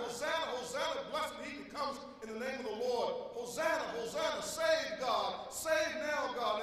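proclaiming hosanna, slowing at the end; crowd crying out. Retold or imitated. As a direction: call it out like the welcoming crowd. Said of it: "the people were crying".

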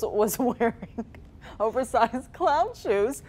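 giggling through the news read; fighting back laughter mid-sentence; trying not to laugh. Real, not acted. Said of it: "the speaker has been laughing".

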